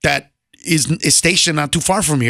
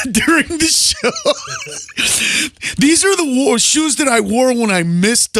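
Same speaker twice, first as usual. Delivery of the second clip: higher, put-on hawker's voice; mock sales pitch; 6 semitones higher than usual. Broke comic selling his show shoes, mock pitch. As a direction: hawk your worn shoes to passersby.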